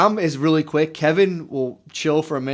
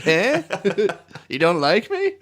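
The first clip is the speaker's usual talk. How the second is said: septic worker impression; 4 semitones higher, slower than usual. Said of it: "a weird impression of some, like, septo worker".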